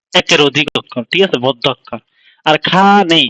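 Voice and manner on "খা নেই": খা held, then নেই on its own; syllable split. Shown as a demonstration. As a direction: keep খা apart from নেই. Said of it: "আসলে এটা একসাথে না".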